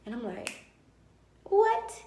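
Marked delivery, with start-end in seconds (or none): 1.4-2.0 sudden high, loud disbelieving what; a stunned, outraged what at his plans; shocked what. Retold or imitated. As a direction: blurt it out in total disbelief. Retelling call with husband.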